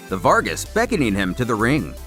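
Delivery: usual speaking voice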